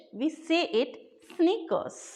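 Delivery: teacher says sneakers slowly so students catch it; slow, careful teacher model. Shown as a demonstration. Teacher to viewers, slow model word. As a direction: stretch out sneakers slowly, each sound clear. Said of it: "But in American English".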